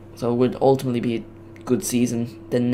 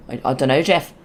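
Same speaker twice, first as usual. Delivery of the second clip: a first, off-target try at the meme line; wrong meme voice. Retold or imitated. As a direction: miss the voice, say it near your own. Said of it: "that's not the right voice".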